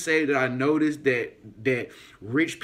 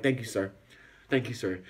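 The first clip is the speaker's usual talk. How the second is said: softer and lower, shrinking politely; meek quiet thanks; 6 semitones lower, 5 dB quieter than usual. Retold or imitated. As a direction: mumble it hoping he lets go. Retold nervous politeness.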